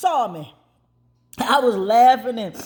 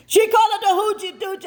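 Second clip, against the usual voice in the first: amused disbelief; 9 semitones higher, faster than usual. Real, not acted. Amused retelling of mother's phrase.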